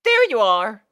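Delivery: high, loud happy call; exclaiming. Acted. Scootaloo spotting Sweetie Belle, high loud exclaim. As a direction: greet a late friend with a shout. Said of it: "Scootaloo exclaimed".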